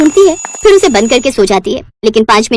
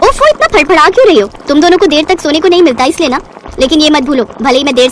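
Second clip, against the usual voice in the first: mocking taunt; 3 semitones higher than usual. Roshni mocks sisters-in-law.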